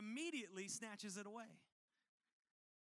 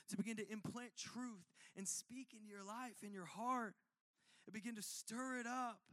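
tender voice of God. Retold or imitated. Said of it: "And he's saying".

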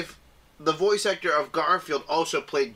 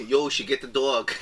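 lower-pitched mock-Brooklyn voice; Brooklyn accent; 4 semitones lower than usual. Trying out the movie's Brooklyn accent for a laugh. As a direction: toss it off like a Brooklyn tough. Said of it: "have him do a Brooklyn accent".

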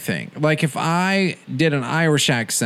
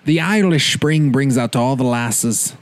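put-on Irish accent; 3 semitones lower than usual. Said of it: "Like, uh".

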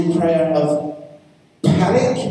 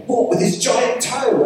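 lightly voiced curious child, pitched higher; child's wonder; 9 semitones higher than usual. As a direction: ask it high, like an amazed little boy. Acting out his small son's questions.

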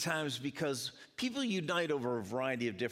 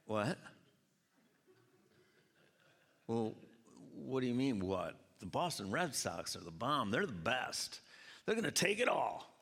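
rival fan; 4 semitones lower than usual. Retold or imitated. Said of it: "And they're like".

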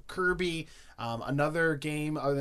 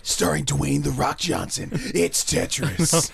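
movie trailer voice; 4 dB louder, slower than usual. Acted. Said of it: "cinematic adaptation".

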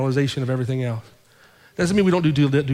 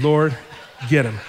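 louder firm prayer; 3 dB louder than usual. Shown as a demonstration. Pastor re-enacting exact prayer for congregation, louder command. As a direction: Lord called out louder, get him punched. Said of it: "Exactly what I said".

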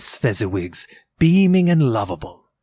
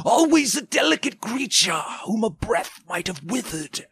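high, eerie ghost voice; high-pitched otherworldly apparition; 9 semitones higher than usual. A narrator's reading. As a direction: speak as a spirit, pitched well above normal. Ghost speaking to Scrooge.

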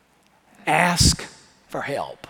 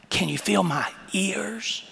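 soft unvoiced whisper; hushed playful question; 6 dB quieter than usual. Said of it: "I whispered".

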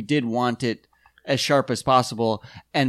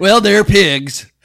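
mock villain; 7 semitones higher, 10 dB louder, much slower than usual. Joking about pygmies.

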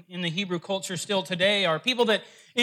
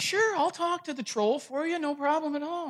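obliging rabbi; 8 semitones higher than usual. Acted. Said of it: "he's like".

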